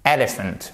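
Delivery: Elephant with stress on the first syllable EL; stressed EL-ephant; English elephant. Shown as a demonstration. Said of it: "accent tonique ... première syllabe".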